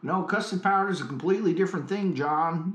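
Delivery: lightly faked American accent; Neil Armstrong. Astronaut corrects the caller on custard, shaky American accent. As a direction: correct him as a half-hearted American astronaut. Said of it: "my American accent".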